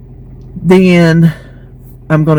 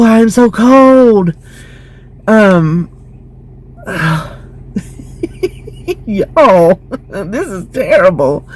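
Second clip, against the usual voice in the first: talking through a brain freeze; slowed by brain freeze; slower than usual. Real, not acted. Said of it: "I got brain freeze".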